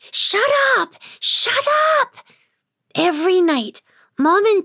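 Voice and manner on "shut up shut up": frantic shout. Acted. Desperate to silence pixie.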